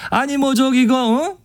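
충청도 사투리 느낌을 시범으로; Chungcheong dialect demo. Shown as a demonstration. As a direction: show what Chungcheong dialect feels like. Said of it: "약간 이런 느낌이잖아요".

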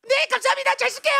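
high-pitched delighted thanks; gleeful sister. Acted. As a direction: accept it with shameless cheer. Sister gleefully takes the money.

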